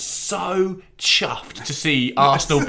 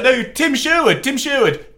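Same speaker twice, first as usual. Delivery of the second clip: high, slow, spelled-out name; insistent Sherwood; 11 semitones higher, 5 dB louder than usual. Retold or imitated. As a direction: stress his own name to be recognised. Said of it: "he's like".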